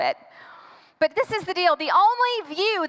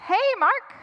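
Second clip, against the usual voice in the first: tag; 6 semitones higher than usual. Acted. Awkward greeting through cracked door.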